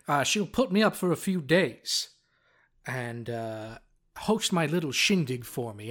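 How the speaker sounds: read diary in the bard's voice. Acted. GM reading the bard's diary entry about Frank, mild character voice. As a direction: gloat through it like the scheming bard. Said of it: "Let's read the passage".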